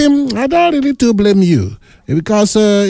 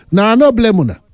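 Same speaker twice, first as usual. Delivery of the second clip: exasperated telling-off; angry and emotional; 3 semitones higher, faster than usual. Real, not acted. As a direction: scold them, getting emotional. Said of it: "Now you're getting angry and emotional".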